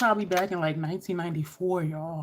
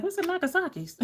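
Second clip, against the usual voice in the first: higher, lightly confused question; puzzled; 11 semitones higher, 3 dB quieter than usual. Retold or imitated. Asking the RA about the Jamaican place, puzzled. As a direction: ask like you've never heard of it. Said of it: "I'm like".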